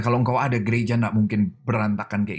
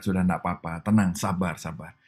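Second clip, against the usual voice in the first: calm reassurance; 4 semitones lower than usual. Retold or imitated. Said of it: "Tuhan yang bilang sama malaikat-malaikat".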